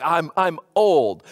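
blunt rude. Retold or imitated. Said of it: "was rude. It was direct".

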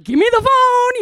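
high, loud snapping order; angry demand. Retold or imitated. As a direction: yell it like a mom confiscating the phone. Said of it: "I just wildly overreacted".

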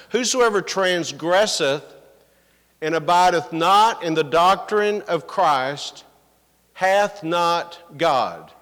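deliberate verse reading, slowing right down at the end; emphatic scripture reading. Acted. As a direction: read the verse out firmly, phrase by phrase.

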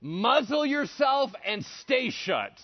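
loud, slow, high-pitched command; stern rebuke. Acted. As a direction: silence the storm with forceful, spaced words. Acted rebuke of the storm.

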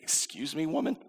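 indignant, pitch leaping high on woman; mock-offended teen snapping back at mom; offended retort. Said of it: "And I was very offended".

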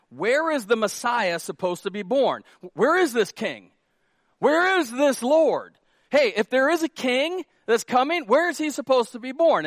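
Herod demanding. Acted. Herod voiced asking priests.

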